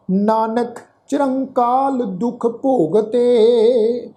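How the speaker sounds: slow, measured Gurbani recitation; scripture recitation. Shown as a demonstration. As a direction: draw out each word of the verse. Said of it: "ਸਮੁੱਚਾ ਪਾਠ ਉਚਾਰਨ ਕਰਦੇ ਹਾਂ".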